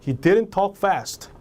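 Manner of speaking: indignant denial. Acted. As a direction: demonstrate a touch of protest. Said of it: "감정만 여러분들이 주입시키면". (살짝 화난 듯 항변)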